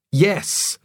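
high excited shout. Acted. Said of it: "shouted Roger".

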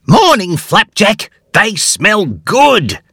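put-on high, eager young bear voice; a high, excited little hero; Huxley's voice. A narrator's reading. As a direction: voice Huxley bright with delight. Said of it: "said Huxley".

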